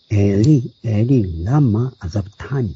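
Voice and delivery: エリ、エリ、ラマ、アザブターニ said as slow, separate Hebrew words; エリ、エリ、ラマ、アザブターニ, carefully pronounced Hebrew; Hebrew original. Shown as a demonstration. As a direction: sound out エリ、エリ、ラマ、アザブターニ word by word. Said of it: "長ったらしい表現じゃないんですね".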